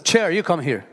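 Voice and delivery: firm mock order to a chair; commanding the chair. Shown as a demonstration. Preacher showing how to command an object. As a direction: tell the chair where to go. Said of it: "you're commanding the chair".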